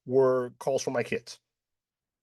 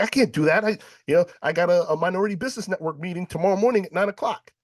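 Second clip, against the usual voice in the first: higher, louder and rushed, listing the meeting; retold protest; 8 semitones higher, 4 dB louder, faster than usual. To his sister, rushing out a higher, anxious protest. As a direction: blurt out excuses fast.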